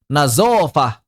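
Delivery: "Nazofah" with buzzing z, long stressed middle; emphatic "Nazofah" using z for the th-sound; zai for zo. Shown as a demonstration. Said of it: "pakai zai terus".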